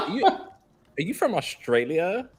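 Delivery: high, slow, giggly mock American voice; gushing American woman. Imitating American women asking about his accent, high and giggly. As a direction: ask it starstruck and giggling.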